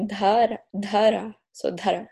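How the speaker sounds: "Dhara" begun with dh, tapped r; DH name demonstration. Shown as a demonstration. Guest modelling her name for the host, DH pronunciation. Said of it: "It's like".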